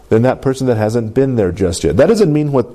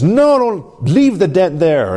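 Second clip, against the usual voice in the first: a light Southern drawl, slow, as the tow truck; lightly voiced Southern tow truck, slow; southern tow truck accent; 6 semitones higher, slower than usual. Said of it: "a better, better accent than that".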